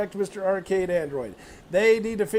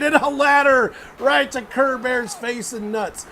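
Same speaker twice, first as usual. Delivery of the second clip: excited call; 4 semitones higher, 5 dB louder than usual. Real, not acted. Ladder shot call.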